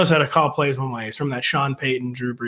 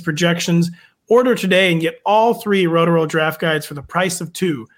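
upbeat sponsor ad read; infomercial; 2 semitones higher than usual. Acted. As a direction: sell it like a radio spot. Host reads sponsor ad.

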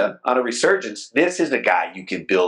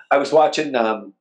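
ordinary talk, nothing marked

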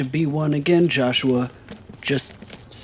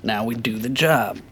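level, matter-of-fact soldier's briefing. Acted. Soldier brushing off a question about nerves, soldier-like. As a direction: state it like a drilled soldier. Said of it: "just sounds soldier-y".

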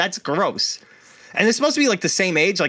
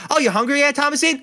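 high, loud mock mom calling to grandma; 11 semitones higher, 3 dB louder than usual. Mom calling up to old grandma, high and sing-song.

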